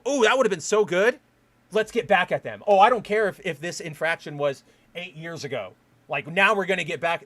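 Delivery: hammed-up grudge holder plotting payback; eager for revenge. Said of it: "But they go".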